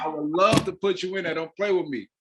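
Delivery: loud, high, fast and eager; urging her to take the part, all fired up; excited insistence. Real, not acted. Director pressing the host to join the cast, excited and loud.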